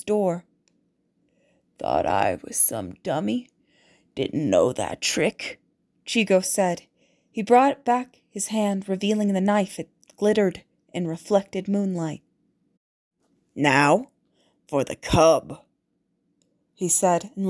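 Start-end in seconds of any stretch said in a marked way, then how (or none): 1.8-5.6 much lower, slow threatening guard voice; a thug gloating over his own cleverness; gruff guard. A narrator's reading. Villainous guard speaks to captive. 13.5-15.6 low, threatening thug voice; menacing guard. A narrator's reading. Guard turns menacingly to the boy.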